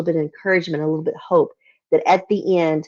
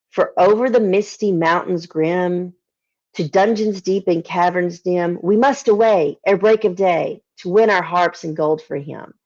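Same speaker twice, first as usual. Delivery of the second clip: slow, measured recitation of verse; poem reading. Acted. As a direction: read it like an old ballad, savouring each line. Reading Tolkien's poem aloud.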